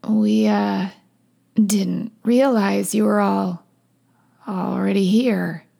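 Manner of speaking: slow, halting embarrassed excuse; sheepish hesitation. Acted. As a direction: stretch it out awkwardly, with gaps. Caught character stammers an excuse.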